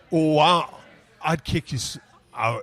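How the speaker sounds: badly faked English accent; Jason Stratham. Host attempting the action star, shaky grip on English accent. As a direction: attempt a tough-guy English accent, halting. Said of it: "he does his accent of Jason Stratham".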